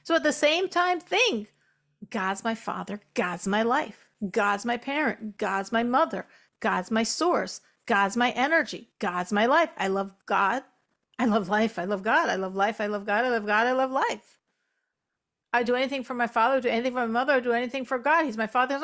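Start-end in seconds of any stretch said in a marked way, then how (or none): 2.1-14.4 low, rhythmic self-talk, building in momentum; repeated affirmations. Shown as a demonstration. Teacher modelling what to think about God, repeated affirmations. Demonstrates repeating thoughts to oneself. 15.5-18.8 rattled-off affirmations. Shown as a demonstration. Demonstrates rattling off devotional thoughts.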